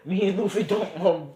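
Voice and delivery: words spilling through a laugh. Real, not acted. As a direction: talk while still laughing. Laughing while telling.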